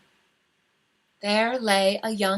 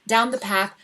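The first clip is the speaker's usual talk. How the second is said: usual speaking voice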